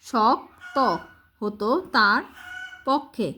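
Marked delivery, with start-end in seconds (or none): 0.1-0.8 শক্ত split as "shok... to"; careful teacher's "shok-to"; sounded-out conjunct. Shown as a demonstration. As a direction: say শক্ত with k first, then t. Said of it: "প্রথমে কর উচ্চারণটা".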